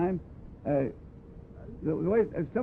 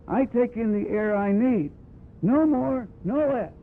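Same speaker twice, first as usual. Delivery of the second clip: firm quoted statement; 4 semitones higher, 3 dB louder, slower than usual. Retold or imitated. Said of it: "was the first man to ever come out and say".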